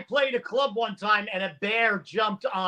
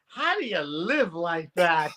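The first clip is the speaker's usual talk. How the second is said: slow, lower-pitched punchline quote; baffled musician; 6 semitones lower, 3 dB quieter than usual. Retold or imitated. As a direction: drag it out in baffled disbelief. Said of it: "turns to the other guy and goes".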